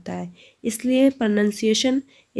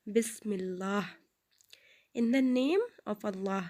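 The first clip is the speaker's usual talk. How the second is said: recite together; 10 dB quieter, slower than usual. Shown as a demonstration. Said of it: "ایک بار recite کیجیے میرے ساتھ".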